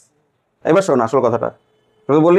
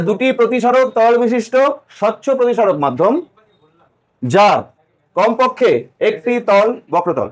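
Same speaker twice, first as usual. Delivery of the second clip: slow, spaced dictation read; teacher dictating a definition; slower than usual. Shown as a demonstration.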